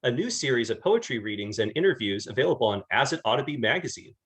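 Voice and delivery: lively scripted intro with swinging pitch; podcast host introduction. Acted. Host introducing a poetry series to listeners, upbeat announcer read. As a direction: present the show and guest to listeners.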